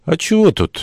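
high, puzzled query; Джош puzzled. A narrator's reading. Josh asks about the stone-thrower, puzzled. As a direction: lift it high, not getting it at all. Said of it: "не понял Джош".

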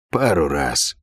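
low-pitched, bored reply; mildly bored, dropping low. A narrator's reading. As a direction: toss it off with no interest. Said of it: "скучающим тоном произнёс он".

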